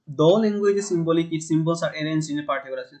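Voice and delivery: unhurried English definition read for notes; slow dictation. Shown as a demonstration. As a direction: read it slowly so students can copy. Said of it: "reads definition slowly for students".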